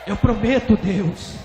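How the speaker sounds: loud, high, fervent promise; impassioned cry to God; desperate vow. Retold or imitated. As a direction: shout the pledge up to God. Pastor repeats his vow.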